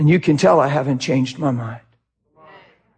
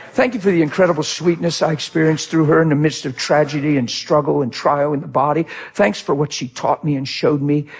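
thankful prayer; 2 semitones lower than usual. Retold or imitated. Child thanking God for mother's life, retold thankful prayer. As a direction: recall a grateful prayer, voice lowered. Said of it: "you know what I started doing?".

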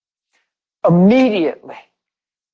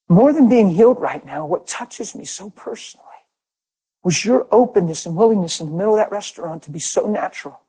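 heartfelt gratitude; 3 semitones higher than usual. Retold or imitated. Woman thanking the man who prayed for her, mildly heartfelt. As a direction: lightly voice someone moved by kindness. Retold woman deeply moved by his care.

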